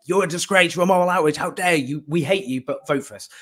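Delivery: half-hearted mock outrage at the voters; retold scream. Party establishment berating reluctant young voters, mock scream. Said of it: "they'll just scream at them".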